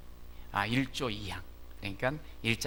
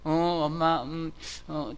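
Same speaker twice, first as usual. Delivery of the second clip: put-on hesitant child answering; 3 semitones higher, 4 dB louder, slower than usual. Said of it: "대답 소리를 들은".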